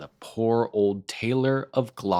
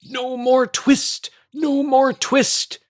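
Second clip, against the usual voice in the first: high, loud, slow squeaky shout; tiny mice yelling in triumph through the shutters; twittering mouse shout; 12 semitones higher, 6 dB louder, slower than usual. A narrator's reading. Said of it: "shout all at once in little twittering voices".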